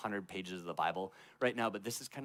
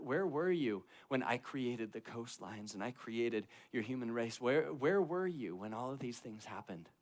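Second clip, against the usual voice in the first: 1 God interrogating. Retold or imitated. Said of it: "lights into Job".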